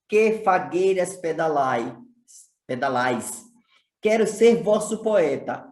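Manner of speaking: measured, projected verse reading; poetry recitation. Shown as a demonstration. Teacher reciting Vinícius de Moraes to students, poetry recitation. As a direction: recite each line with deliberate phrasing. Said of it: "mais um trecho da poesia".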